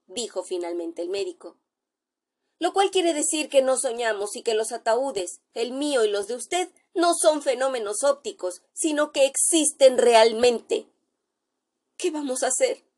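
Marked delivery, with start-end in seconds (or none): 2.6-12.8 high, shaken voice of a terrified doctor; a doctor sure he sees a ghost, voice rising in fear; frightened doctor. Acted. Terrified doctor tells his friend he looks like a corpse, high shaken voice.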